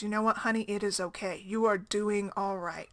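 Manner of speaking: retold comforting. Stranger comforts a crying mother.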